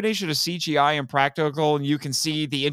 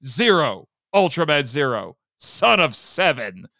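imitating Zero; 2 semitones lower than usual. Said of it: "he turns around and he says".

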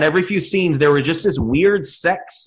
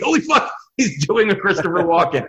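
retold astonishment; 2 semitones higher than usual. Replaying his realization on rewatching.

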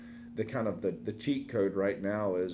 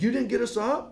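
put-on high, louder whiny kid voice; kids protesting; 12 semitones higher, 4 dB louder than usual. Kids complaining their dad let them sleep, high whine. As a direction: play the indignant child, pitched up. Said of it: "They're like".

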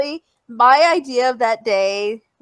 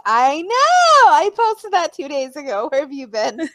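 excited retort; 3 semitones higher than usual. Retold or imitated. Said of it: "I'm like".

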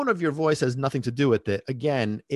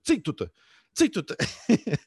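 lightly raised, falling order; mock command; 4 semitones higher, much slower than usual. Telling the alarm clock to shut up, mock command. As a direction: call out a playful shut-up order. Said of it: "hear me say".

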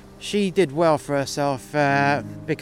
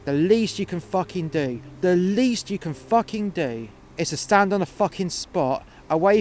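louder, higher fury; retold furious rant; 3 semitones higher, 4 dB louder than usual. Worker ranting at the boy about the rules, furious. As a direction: really let him have it.

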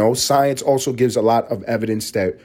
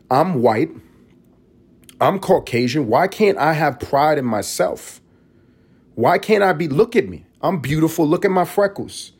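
higher, preening mock girl voice, mildly hammed; mock self-proud TikTok girl; 5 semitones higher than usual. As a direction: parody her showing off her looks. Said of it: "She's saying".

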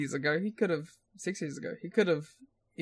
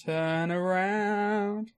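mock calling out; 2 semitones higher, 3 dB quieter, much slower than usual. Co-host echoes the drawn-out call.

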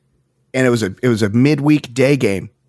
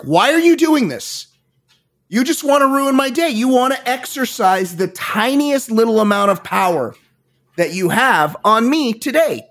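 much higher, indignant rant at the usher; retold angry outburst; 9 semitones higher than usual. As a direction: rail at her, voice way up high. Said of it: "got in a screaming match with the usher".

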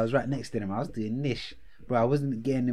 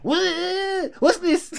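startled; 6 dB louder, much slower than usual. Retold or imitated. Worker grabs wrist, retold.

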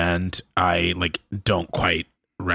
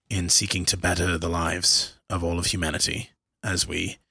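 statesman voice. Acted. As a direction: address the crowd like a statesman. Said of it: "in my best statesman voice".

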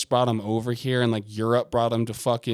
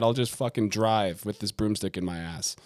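mock stubborn patient.

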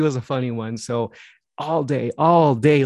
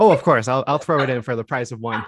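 playful salesman with a laugh; infomercial pitchman. Pretend. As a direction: toss in the bonus like a TV ad. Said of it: "it sounds like an infomercial".

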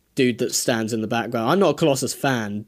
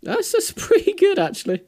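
put-on British accent. Mimicking British praise.

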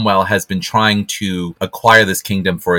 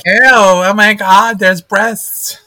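shocked prude squeal; 13 semitones higher, 5 dB louder, slower than usual. Retold or imitated. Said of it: "So you were like".

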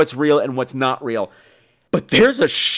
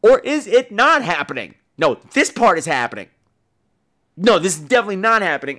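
confused self-quote; 5 semitones higher than usual. Retold or imitated. Host retelling his confusion while watching the film, bewildered. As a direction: puzzle aloud as if lost. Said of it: "I'm going".

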